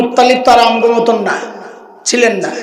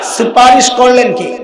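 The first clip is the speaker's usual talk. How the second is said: call to the crowd. Shown as a demonstration. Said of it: "বলেন এইবার".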